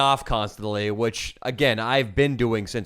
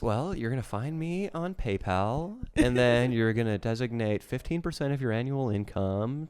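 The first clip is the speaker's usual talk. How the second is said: mock gold digger voice; 7 dB quieter, slower than usual. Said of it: "Here's gonna be her advice".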